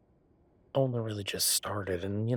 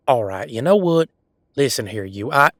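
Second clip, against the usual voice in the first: indignant outburst; 2 semitones higher, 12 dB louder than usual. Acted. Teased man snaps back.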